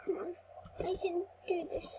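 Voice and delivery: whispered self-encouragement; real whispered pep talk. Real, not acted. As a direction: breathe it to yourself. Self-encouragement during tense play.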